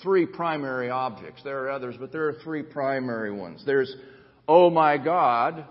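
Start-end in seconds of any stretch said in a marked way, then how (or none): 4.5-5.6 slow, loud cry to God; emphatic psalm cry. Acted. Preacher quoting the psalmist's address to God, emphatic cry. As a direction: draw it out loudly, like a prayer.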